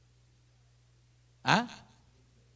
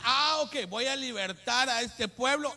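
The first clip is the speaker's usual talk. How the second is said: higher and louder, slow proclamation as the Lord; voicing the Lord; 8 semitones higher, 7 dB louder, slower than usual. Preacher voicing the Lord deciding to free his people, higher and louder. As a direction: announce freedom like the Lord.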